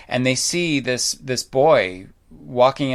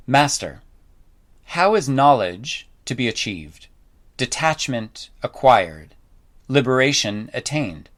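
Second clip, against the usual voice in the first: scripture reading. Shown as a demonstration. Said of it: "But I'm gonna read a bit to you".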